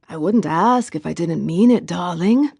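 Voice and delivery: a light, lilting Jamaican accent, lightly put on. Boyfriend teasing his girlfriend to come over, in a light Jamaican lilt. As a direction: charm her with a gently sung Jamaican lilt. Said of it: "in the lilting Jamaican accent".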